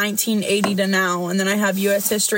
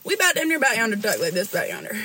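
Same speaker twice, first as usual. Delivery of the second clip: put-on Southern accent; much faster than usual. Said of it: "we talk".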